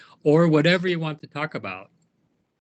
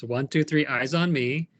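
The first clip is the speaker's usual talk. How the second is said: classroom call-out. Shown as a demonstration. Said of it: "Let's practice".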